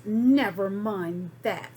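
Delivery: slow, loud stern retort; snapped. Acted. Miss Swamp silencing the kids, slow and loud. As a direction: cut them off sharply. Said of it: "snapped Miss Swamp".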